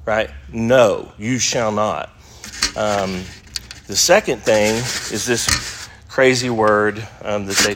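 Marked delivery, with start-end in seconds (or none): 0.5-2.1 firm fronted No; emphatic no. Shown as a demonstration. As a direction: lay weight on No. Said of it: "It's emphatic".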